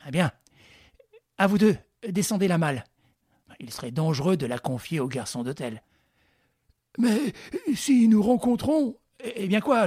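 a lightly voiced confident ringleader; Lupin giving orders. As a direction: bark out instructions to your men. Lupin directing his men.

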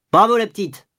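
high-pitched cheer; bravo de badaud. A narrator's reading. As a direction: cheer her on from the crowd. Bystander cheers her on. (acclamation aiguë et enjouée)

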